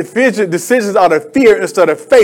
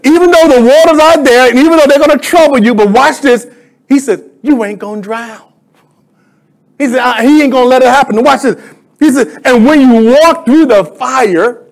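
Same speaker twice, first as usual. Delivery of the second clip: high, emphatic sermon delivery; impassioned preaching; 6 semitones higher, 3 dB louder than usual. Acted. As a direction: preach the promise with urgency. Preaches in God's words.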